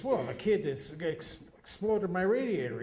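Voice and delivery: put-on outraged driver accusing the kid; hammed-up indignation; mock angry customer.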